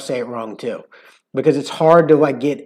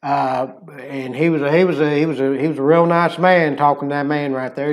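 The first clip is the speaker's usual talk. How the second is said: lightly done Texas uncle; uncle's Texas accent; 4 dB louder than usual. Shown as a demonstration. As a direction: tell it like a Southern uncle on the job. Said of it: "I'll just do an impression of my uncle".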